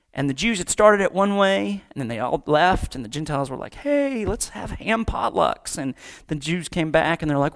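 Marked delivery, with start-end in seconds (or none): 3.7-5.8 lightly acted, higher-pitched "hey", drawn out; mock breezy suggestion. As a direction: toss out a carefree invitation, imitating. Gentiles' cheery suggestion acted out.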